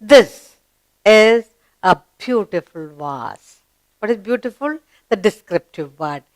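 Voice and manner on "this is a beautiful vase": measured classroom reading; read-along model. Shown as a demonstration. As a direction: present the sentence deliberately to a class. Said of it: "let's look at the sentence".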